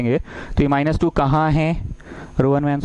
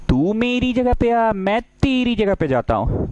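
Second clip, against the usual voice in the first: higher, slow lightly voiced row two; row two speaking; 6 semitones higher than usual. Row two asks row one to swap, lightly voiced. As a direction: coax row one gently into swapping. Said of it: "ये बोला Rowan से".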